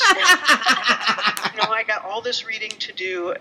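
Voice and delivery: mock whining excuses to friends; whiny excuse. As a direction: plead your excuses half-laughing. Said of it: "And I'm".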